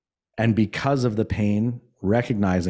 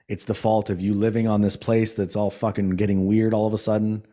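firm self-talk. Retold or imitated. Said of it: "I was like".

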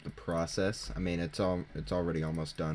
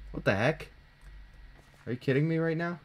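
real yell of disbelief; 10 semitones higher than usual. Real, not acted. Gamer realizes he was in the cave all along, yelling in disbelief. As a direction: shout it in total disbelief. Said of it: "If you heard a yell there".

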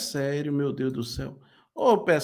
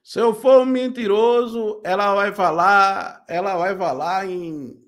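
mock preacher; 4 dB louder, slower than usual. Mocks the preacher's challenge.

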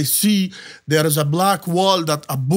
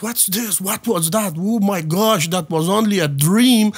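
retold scared confusion; 3 semitones higher than usual. Man waking from a dream with a gun, retold scared confusion. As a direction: act out waking up in mild alarm. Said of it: "I get even more scared".

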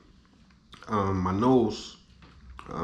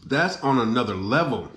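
chewing while talking; muffled, food in mouth; mouth full of sushi; 2 semitones higher than usual. Real, not acted. Seen 1: Sushi bite at -3.0; closed, pursed lips while talking afterward.

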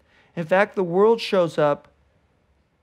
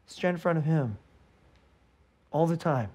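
hushed; 4 semitones lower, 9 dB quieter than usual. Real, not acted. Closing exhortation.

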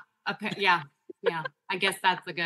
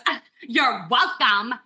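slow, pointed mock retort; sarcastic retort; much slower than usual. Woman to pedestrian who dodged her, slow sarcastic retort. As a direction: imitate someone huffily demanding thanks.

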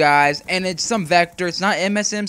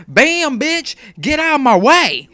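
louder and higher, slow trash-talk yell; mock tough shout; 9 semitones higher, 9 dB louder, slower than usual. Gamer taunting an enemy player, mock tough shout. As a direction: gloat like you just wiped out an enemy. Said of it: "I was like".

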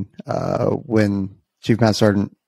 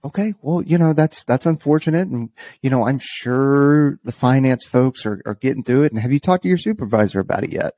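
lightly voiced patient official, pitched up; polite chief; 3 semitones higher than usual. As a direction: imitate a gracious leader soothing a complainer. Imitating the chief's polite reply.

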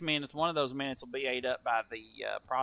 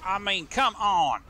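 frustrated outburst; 7 semitones higher, 9 dB louder, slower than usual. Real, not acted. Tire blown, car stuck.

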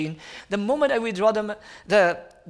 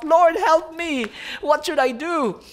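slow, loud and higher, calling out for help; crying out to God; 7 semitones higher, 3 dB louder than usual. Retold or imitated. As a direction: cry out to the Lord in desperation. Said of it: "I was crying out".

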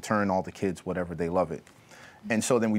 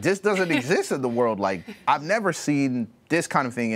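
higher-pitched retold amazement; amazed; 4 semitones higher than usual. Retelling a cousin's reaction to family worship, amazed. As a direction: voice a guest's astonishment, pitched up.

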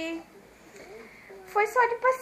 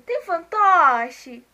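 excited; 3 semitones higher, 11 dB louder, much slower than usual. Retold or imitated. Retold eager shop question.

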